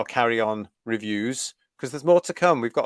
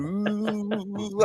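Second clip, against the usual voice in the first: crowd's ooh; 7 semitones higher, 5 dB quieter than usual. Retold or imitated. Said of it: "everybody's going".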